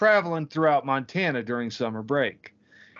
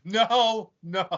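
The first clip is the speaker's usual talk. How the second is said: high, dismayed noes; dismayed protest; 9 semitones higher, 3 dB louder, much slower than usual. Real, not acted. Friend dreading where the airplane joke goes, dismayed protest. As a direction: protest in a raised pitch.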